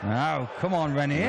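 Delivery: lightly put-on French accent; a hint of an Allo Allo French accent. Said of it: "I felt like I was quoting Allo Allo".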